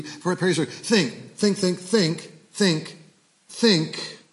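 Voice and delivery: measured scripture reading, each line weighed. Acted. Pastor reading Paul's letter to the church, measured. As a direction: read it out like a verse from the pulpit. Reads Philippians aloud.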